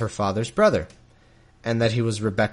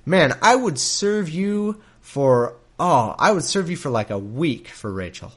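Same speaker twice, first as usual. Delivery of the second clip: mock lowball offer; 4 semitones higher than usual. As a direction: drag it out like a sly bargainer, lightly hammed. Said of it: "I probably would have said".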